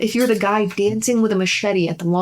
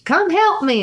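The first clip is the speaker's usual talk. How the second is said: mock holler; 10 semitones higher than usual. Wife hollering again.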